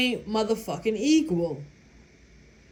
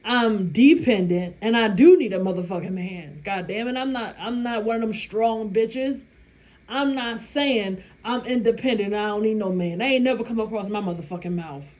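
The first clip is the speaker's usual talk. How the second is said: emphatic retort; 4 dB louder than usual. Retold or imitated. Retelling what she told chef.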